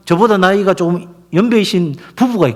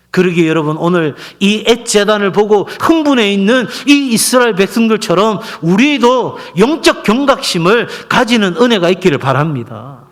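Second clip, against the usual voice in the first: emphatic pulpit appeal; preaching exhortation; 3 semitones higher, 4 dB louder than usual. Acted. Pastor urging congregation to stay spiritually alert, preaching exhortation. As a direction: urge the congregation earnestly, settling at the close.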